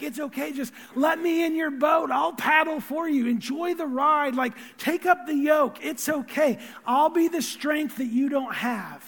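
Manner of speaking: lightly voiced Jesus, urging and encouraging; Jesus reassuring. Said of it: "Like, Jesus, like".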